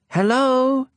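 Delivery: a high, ringing call across the peaks. Acted. Little prince calls from the mountaintop, high and ringing.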